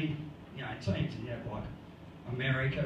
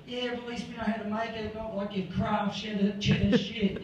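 higher, quick comeback, not truly shouted; mock yelled retort; 4 semitones higher than usual. The French yelling back at their insulters, mock retort. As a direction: pretend to yell back, half laughing by the end. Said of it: "we'll just yell back".

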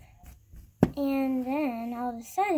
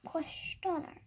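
hushed playful whisper; 8 dB quieter than usual. Pretend. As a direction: breathe the word secretly.

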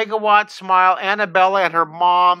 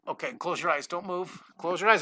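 soft instructions; 7 dB quieter than usual. Real, not acted. Giving husband his eye drops.

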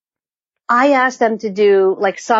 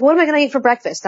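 1 horrified husband; 3 semitones higher, much faster than usual. Retold or imitated.

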